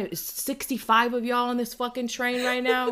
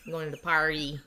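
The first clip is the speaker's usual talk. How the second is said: softer, light Midwestern accent; hint of a Midwesterner talking; 4 semitones lower, 3 dB quieter than usual. Shown as a demonstration. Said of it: "that Midwestern accent".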